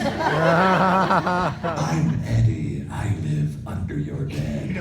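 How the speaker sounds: creepy playful monster voice; teasing spooky voice; creepy under-bed voice. Pretend. Robot Eddie voiced, creepy line.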